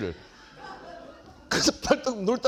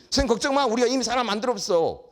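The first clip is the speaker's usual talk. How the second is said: proud cocky students; 5 semitones higher than usual. Retold or imitated. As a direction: brag like a kid who fixed everything. Students proudly reassure teacher.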